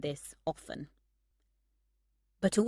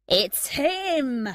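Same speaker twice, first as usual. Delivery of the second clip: high, loud burst of recognition; excited stranger spotting someone famous; 8 semitones higher, 6 dB louder than usual. A narrator's reading. Man on the ferry spots the TV presenter, excited.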